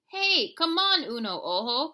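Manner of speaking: high, loud call to a friend. A narrator's reading. Kitty boy calling his Martian twin, high loud call. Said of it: "called the kitty boy".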